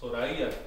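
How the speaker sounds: "Soraya" repeated as so-ra-EE-a. Shown as a demonstration. Teacher repeating the corrected name, old E sound for Y. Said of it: "the Y was pronounced E".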